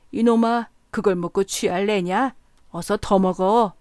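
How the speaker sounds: loud tipsy bellow; drunken shout. A narrator's reading. Drunk man to his friend, loud drunken shout. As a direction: yell at your friend to keep drinking. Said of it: "취한이는 부르짖었다".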